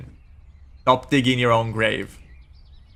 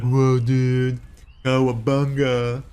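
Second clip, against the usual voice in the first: stoner voice; slower than usual. Acted. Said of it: "it's a pothead".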